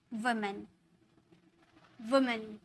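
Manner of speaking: soft, careful वुमन with a short u, like wuh-mun; woman said carefully. Shown as a demonstration. Teacher showing students how to say वुमन, soft and careful. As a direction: spell out वुमन slowly for the class. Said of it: "वुमन, हम इसे बोलेंगे".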